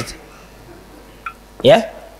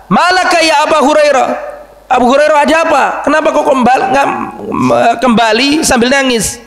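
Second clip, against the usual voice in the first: raised, searching voice of the Prophet; concerned raised question; 7 semitones higher than usual. Acted. Preacher voicing the Prophet asking Abu Hurairah, raised concerned tone.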